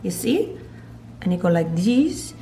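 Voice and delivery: put-on playful German-accented cooking demo; bad German accent. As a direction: talk them through it in a shaky fake German accent. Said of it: "can't even do a German accent".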